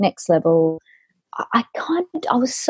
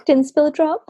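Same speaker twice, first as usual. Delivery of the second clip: proud dad; 7 semitones higher than usual. Retold or imitated. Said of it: "He's like".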